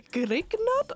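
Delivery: slow imitation of an Indian accent on GRIGNARD; thick Indian accent. Student imitates chemistry teacher's pronunciation, thick Indian accent. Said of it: "den tykkeste indiske accent".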